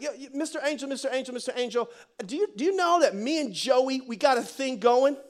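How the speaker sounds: lightly voiced Italian-American character; Mary, Italian-style. Mary questions the angel about Joey, light Italian attitude. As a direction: pester with a hint of Italian attitude. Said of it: "I think she was Italian".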